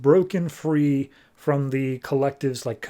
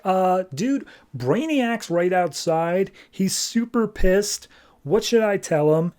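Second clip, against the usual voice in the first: higher-pitched, slow worried report; mildly hammed-up alarm; mock nervous; 5 semitones higher, slower than usual. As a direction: break bad news uneasily to the boss. Acted panicky report to his boss.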